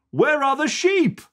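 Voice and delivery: put-on boy looking for the sheep; child voice. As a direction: ask like a small boy looking around. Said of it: "says Sam".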